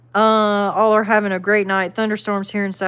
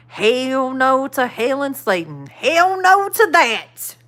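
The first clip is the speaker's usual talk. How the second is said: slow, drawn-out, rising hell no; emphatic refusal; 4 semitones higher, slower than usual. Real, not acted. Refusing a viewer's Satan joke, drawn out. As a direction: drag it out, refusing firmly.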